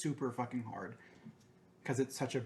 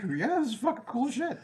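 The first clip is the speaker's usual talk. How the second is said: excited; 10 semitones higher, 5 dB louder than usual. Real, not acted. Excited about the show.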